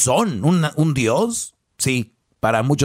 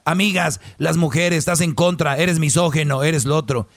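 hammed-up accusing woman; a host mocks a woman who calls a man misogynist; mocking her indignation; 3 semitones higher than usual. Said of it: "entonces ya".

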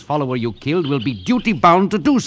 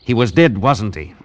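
accusing; 5 dB louder than usual. Acted. Accusing confrontation.

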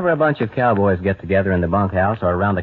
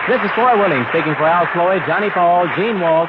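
cheerful sign-off; 6 semitones higher than usual. Acted. Host's cheerful on-air sign-off.

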